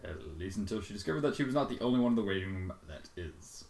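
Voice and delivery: normal talking voice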